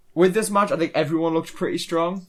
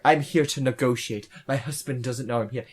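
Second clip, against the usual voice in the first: put-on Russian accent; 5 semitones lower, 5 dB quieter than usual. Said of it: "in a Russian accent".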